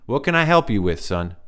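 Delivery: put-on high reedy old man asking; a lightly voiced strange old man; light reedy stranger. A narrator's reading. Stranger greeting Ryan, high reedy voice. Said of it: "light, reedy voice".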